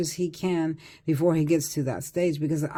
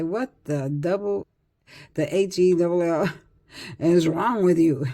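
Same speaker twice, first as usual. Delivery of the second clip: in-his-face scolding. Pretend. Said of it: "get right in his face and say".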